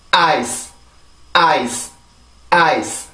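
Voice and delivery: 아이스 as English "ice", stressed vowel, short soft S; soft final S. Shown as a demonstration. Teacher modelling for repetition, 아이스 with soft final S. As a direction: end 아이스 on a light S with no added 으 vowel. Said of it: "아주 부드럽게 발음을 해주세요".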